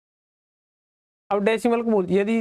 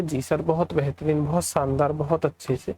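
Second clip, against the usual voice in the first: lightly voiced student answer, lower; imagined student reply; 4 semitones lower than usual. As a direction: play the agreeable student in a lowered voice. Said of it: "आप बोलोगे".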